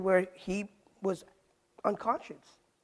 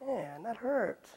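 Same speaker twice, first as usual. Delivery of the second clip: soft, slow pained murmur under the breath; inner voice; 7 dB quieter, much slower than usual. Retold or imitated. Preacher voicing his inner reaction to a rock hit, soft and slow. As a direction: groan it quietly to yourself, drawn out. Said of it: "in my inner voice".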